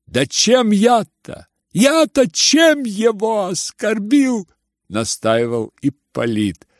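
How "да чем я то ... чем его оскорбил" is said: mocking tone. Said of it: "тем же насмешливым тоном".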